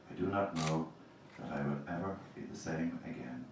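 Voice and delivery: measured reading of a poem to the audience. Acted. Reading his Kilmainham poem aloud to the audience, measured reading. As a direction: read each image with space around it, letting lines drop away.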